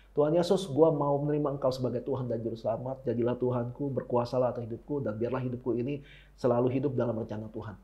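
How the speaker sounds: low, soft recited prayer; demonstrated prayer. Shown as a demonstration. Preacher models accepting Jesus as Lord, demonstrated prayer. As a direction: recite it softly, as a model confession of faith.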